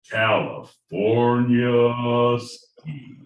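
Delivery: slow, drawn-out contestant introduction; game-show announcer. Acted. Co-host introduces the contestant of the hour, announcer build-up. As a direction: stretch the name out like an announcer.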